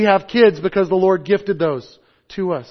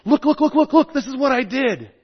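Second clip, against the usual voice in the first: high, eager look-look-look; like a kid bursting to show off; much higher, tumbling excitement; excited; 8 semitones higher than usual. Acted. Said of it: "it's excitement".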